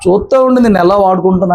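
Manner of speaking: firm promise, rising on తోడే; voicing God's promise. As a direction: speak as God promising to stand by his son. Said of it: "ఇప్పుడు ఏం చెప్తున్నాడు దేవుడు?".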